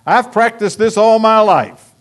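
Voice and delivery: imagined dying prayer. Pretend. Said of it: "you can say".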